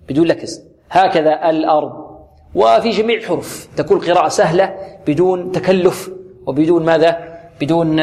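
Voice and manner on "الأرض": الأرض with a clear, easy hamza, not jabbed; hamza without jabbing. Shown as a demonstration. Teacher models for reciters, easy unforced hamza in الأرض. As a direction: sound the hamza of الأرض fully but smoothly.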